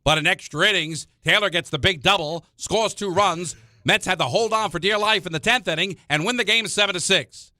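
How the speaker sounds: put-on high old-time newsreel narrator; old-timey voice. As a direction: read it like a vintage newsreel. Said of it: "Give me an old-timey voice".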